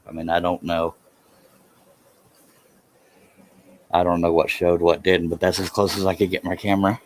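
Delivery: breathless after exertion; panting between phrases; out of breath. Real, not acted. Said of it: "yes, I'm out of breath".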